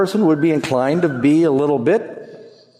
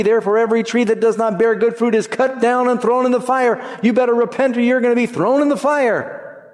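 raised, higher preaching rebuke; prophet's rebuke; 6 semitones higher than usual. Retold or imitated. John warning religious leaders, voiced higher and forceful. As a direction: warn them like a fiery prophet. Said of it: "He said to them".

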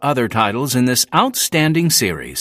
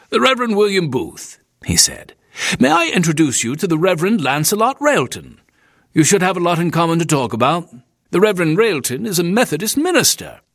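Smedley the proprietor; 6 semitones higher, faster than usual. Acted. Narrator voices proprietor Smedley.

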